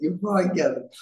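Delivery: light imitation of a mate's Irish accent; lightly put-on Irish lilt, teasing. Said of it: "In his, in his accent".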